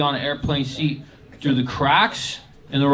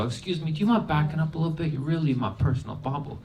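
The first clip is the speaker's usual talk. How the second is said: mock polite; 3 semitones higher, 4 dB quieter, faster than usual. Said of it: "So I very politely look up at her".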